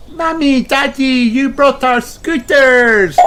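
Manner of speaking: high, slow delighted call; excited cry. Acted. Peppa sees her parents scooting, thrilled. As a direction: greet them thrilled. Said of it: "cries Peppa".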